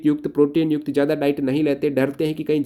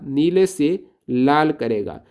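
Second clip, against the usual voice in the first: slow emphatic repeat; slower than usual. Shown as a demonstration. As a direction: drill नीले से लाल करेगा slowly, word by word. (धीरे-धीरे ज़ोर देकर दोहराएँ)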